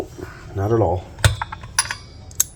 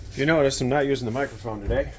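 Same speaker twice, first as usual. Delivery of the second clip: underwater sound; 2 semitones higher than usual. Real, not acted. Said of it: "I sound like I'm underwater".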